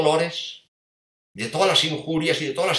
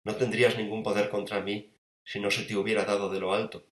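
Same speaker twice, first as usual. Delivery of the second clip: meek; 4 semitones lower, 4 dB quieter than usual. Acted. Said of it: "con una enorme mansedumbre".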